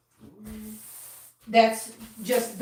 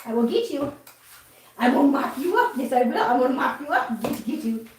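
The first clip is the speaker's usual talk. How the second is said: mock threatening play voice. Playful chase with kitten.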